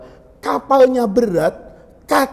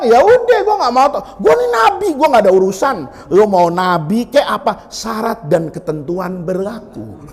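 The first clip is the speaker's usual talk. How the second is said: dismissive sailors. Retold or imitated. Sailors brush Yunus off.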